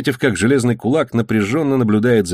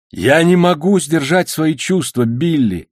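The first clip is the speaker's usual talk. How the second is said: tender; 6 semitones higher, slower than usual. A narrator's reading. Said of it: "нежно сказал шкипер".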